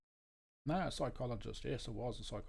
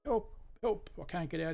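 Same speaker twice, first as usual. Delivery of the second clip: calling for help; 7 semitones higher than usual. Retold or imitated. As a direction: shout up desperately to the passer-by. Stuck man calls for help.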